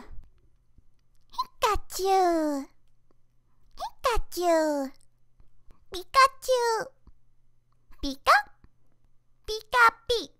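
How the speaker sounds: high squeaky Pikachu calls. Acted. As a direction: chirp it like the yellow mouse. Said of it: "that was all my voice acting".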